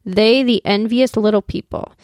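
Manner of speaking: slow, measured poem recital; poem reading. Acted. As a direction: read it like a solemn old poem. Reads the Longfellow poem aloud.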